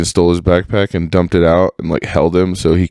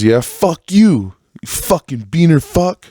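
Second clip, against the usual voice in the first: bratty retort; 9 semitones higher than usual. Retold or imitated. The Nazi kid snapping back at his bullies, mocking and shrill. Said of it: "And he goes".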